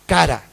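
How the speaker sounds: "cara" said with the stress on the second A, ca-RA; pronunciation demo. Shown as a demonstration. Preacher teaching the Hebrew word to the congregation, ca-RA stressed at the end. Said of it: "cara, con acento en la última A, en la segunda A".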